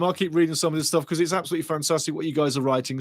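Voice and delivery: ordinary talk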